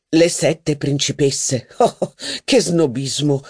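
slow, amused exclamation with a laugh; mock exclamation. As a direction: echo the title, laughing at it. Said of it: "esclamò il signor d'Argencourt".

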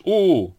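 short, high, loud "oo"; hooted cry. A narrator's reading. Donkey about to play the motor, hooted cry. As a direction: give a quick high motor hoot. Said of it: "был готов крикнуть".

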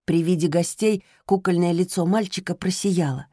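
ordinary delivery, nothing marked

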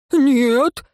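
put-on high, indignant girl's refusal; high-pitched protest. A narrator's reading. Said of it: "возмутилась Лейра".

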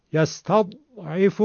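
"یستضعف" with a silent held d mid-word; unheard stopped Dad. Shown as a demonstration. Teacher showing the Egyptian Dad vanishing, stopped d. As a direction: hold the Dad in "یستضعف" shut, a gap before the rest.

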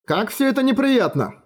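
high, dismayed exclamation; exclaiming. Acted. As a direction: cry out in dismay. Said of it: "воскликнул король".

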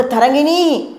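high, anxious shout of her name; loud fearful cry. A narrator's reading. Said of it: "உரக்க கூவினார் Cheraman". (பயத்துடன் உரக்கக் கூவல்)

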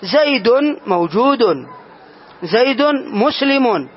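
slow and deliberate, each word spelled out; slow teaching demo. Shown as a demonstration. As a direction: lay it out slowly for students. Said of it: "فقلت". (نطق بطيء متأنٍّ للتوضيح)

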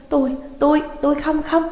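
high, stumbling, cornered stammer; panicked stammer. Acted. Cornered old woman stammering to the fortune teller, panicked.

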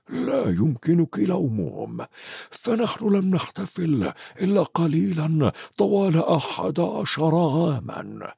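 put-on slow, gentle old wizard; gently. Dumbledore calms McGonagall, gently and slowly. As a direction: soothe her, slowly. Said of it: "قال دامبلدور برفق".

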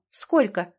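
a curt, hard cut-in; harsh interruption. A narrator's reading. Wife cuts off husband mid-sentence, hard and curt. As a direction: cut him off short and hard. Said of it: "перебила она жёстко".

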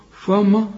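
فما with thick, dark vowels; wrongly heavy. Shown as a demonstration. Teacher shows the student's error, wrongly heavy. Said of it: "كلها خطأ يا راجل".

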